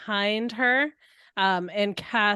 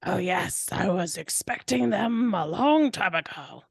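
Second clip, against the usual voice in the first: Doctor Egg guy. Acted. Spell answers the minion, lightly hammed villain voice. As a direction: stretch the words in mild villainy. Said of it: "create the voice of the".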